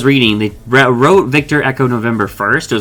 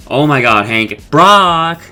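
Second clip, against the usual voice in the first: raised, higher call for someone; 5 semitones higher, 4 dB louder, much slower than usual. Retold or imitated. Rusty calls Brock in on finding Hank, mock calling out. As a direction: act out calling someone in, getting louder. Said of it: "calling Brock in".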